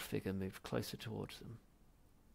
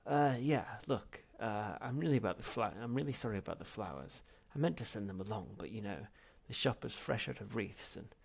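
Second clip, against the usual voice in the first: a lightly voiced nervous young man, gabbling; flustered excuse; 4 dB louder than usual. Zaphod apologising to his ancestor, flustered. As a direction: fumble for excuses.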